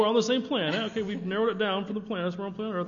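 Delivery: excited loud echo. Real, not acted. Delighted echo of a quip.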